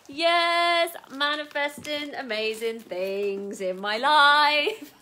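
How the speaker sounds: loud, drawn-out celebration breaking into laughter; jubilant cheer. Real, not acted. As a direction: crow it slowly and loudly. Celebrating the new bag.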